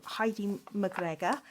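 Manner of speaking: playful attempt at a Scottish accent; lightly put-on Scottish accent. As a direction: have a cheeky go at Scottish. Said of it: "try and do a Scottish accent".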